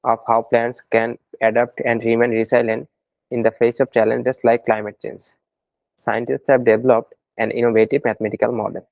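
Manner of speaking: slow, measured passage read aloud. Shown as a demonstration. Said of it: "এটা এভাবেই তো আমরা পড়ি". (পাঠ্য পড়ার ধরনে ধীরে পড়া)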